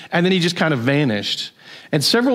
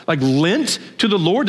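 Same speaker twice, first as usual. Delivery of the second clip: recoiling disbelief. Real, not acted. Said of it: "I recoiled".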